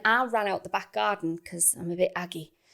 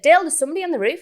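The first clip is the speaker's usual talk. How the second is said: acted call out to partner, higher and louder; retold shout; 9 semitones higher, 7 dB louder, much faster than usual. Woman alerting her partner to a roof intruder, retold shout. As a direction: call Dale in mock alarm. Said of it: "heard you shouting".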